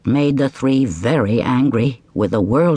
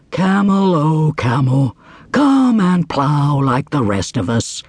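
slow, plodding ox; slower than usual. Acted. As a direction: drag it out like an ox. Ox speaking slowly.

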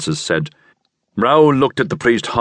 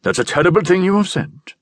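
high, indignant outcry; angry cry; 11 semitones higher, faster than usual. A narrator's reading. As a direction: cry out in shocked anger. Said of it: "he cried angrily".

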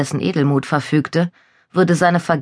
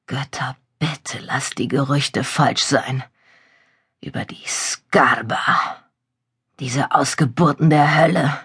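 slow, hushed and pleading; fearful whispered prayer; 2 semitones lower, slower than usual. Acted. Prisoner praying in fear.

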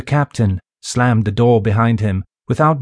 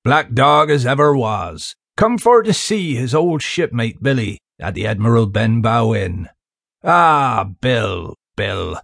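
sly seaman. Acted. Stranger greets the captain slowly.

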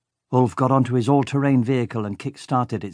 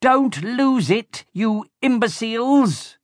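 much higher, slow frantic villain shout; villain shouting at the henchmen in the chaos; villain yelling; 12 semitones higher, slower than usual. A narrator's reading. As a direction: scream orders from the wheelhouse. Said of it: "Baron Marakai poked his head".

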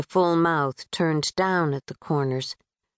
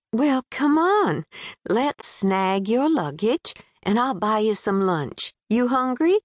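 a lightly voiced friendly Southern girl calling out; 4 semitones higher than usual. Natalie voiced by narrator.

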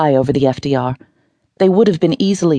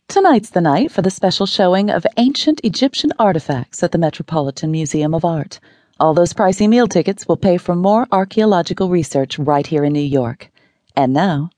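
higher, bright anchor voice; smiling newscaster, lightly voiced; upbeat news read; 3 semitones higher than usual. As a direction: switch to the lighter story with a smile. Newscaster turns cheerful.

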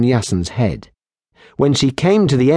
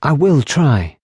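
put-on higher, lively young barmaid voice; teasing barmaid; 5 semitones higher than usual. Barmaid teasing the lieutenant about her healing, higher and playful. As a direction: tease them playfully, brightly pitched. Kylie consents.

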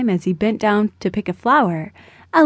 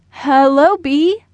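put-on higher, tentative child's greeting; hesitant; 5 semitones higher, 4 dB louder, slower than usual. A narrator's reading. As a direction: greet it cautiously, pitch rising. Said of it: "said Austin hesitantly".

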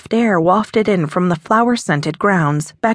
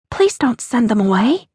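ordinary delivery

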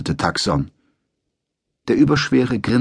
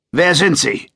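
higher, lightly voiced leering soldier; leering question; 8 semitones higher, 3 dB louder than usual. A narrator's reading. Sergeant looks Yumeko over, mild leer. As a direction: size her up as you ask.

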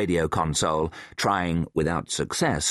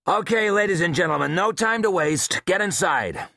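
urgent orders; 11 semitones higher than usual. A narrator's reading. Leader hurrying the dive team.

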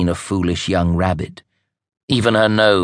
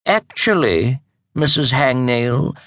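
haughty; 5 semitones higher than usual. Acted. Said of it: "the Grand High Witch said haughtily".

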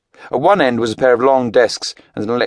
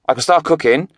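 higher, eager Welsh lad; eager Welsh teen; 9 semitones higher, 4 dB louder than usual. A narrator's reading. Jake offering to cook for Craig, eager Welsh. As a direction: offer it brightly.

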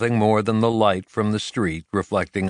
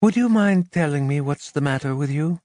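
irritated; 6 semitones higher than usual. A narrator's reading. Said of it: "Carmen frowned".

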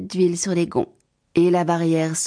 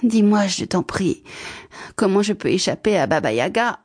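gentle plea; 3 semitones higher than usual. Acted. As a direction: ask with gentle, hopeful politeness. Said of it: "lui demanda doucement".

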